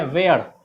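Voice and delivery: "वेयर" with an "air" vowel; common mispronunciation. Shown as a demonstration. Teacher quoting lifelong habit, "वेयर" as "vair". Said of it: "जिंदगी भर लोग बोलते आए".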